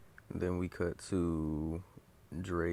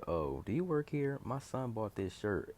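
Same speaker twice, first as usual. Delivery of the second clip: high, pushy customer mom voice; an irate mother demanding an exchange, higher voice; angry mom; 7 semitones higher than usual. Retold or imitated. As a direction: play the demanding mom at the counter. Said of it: "this, this angry mom there".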